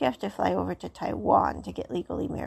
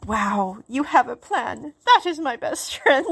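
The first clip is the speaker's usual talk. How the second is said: impressed friend; 3 semitones higher, 5 dB louder than usual. Retold or imitated. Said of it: "his friend is like".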